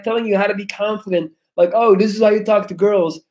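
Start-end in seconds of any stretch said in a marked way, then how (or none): 1.7-3.2 mocking guru. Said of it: "telling you how to live your life".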